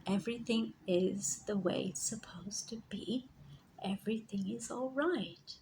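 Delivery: soft whispered reassurance; calm hushed inner voice; guide's whisper. Retold or imitated. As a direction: whisper it like a gentle voice from within. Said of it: "And this voice said".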